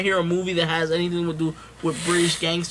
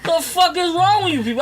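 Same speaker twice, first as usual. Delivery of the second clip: high, loud yell breaking into laughter; laughing mock yell; 10 semitones higher, 4 dB louder than usual. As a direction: yell it again but laugh through it. Repeat outburst while laughing.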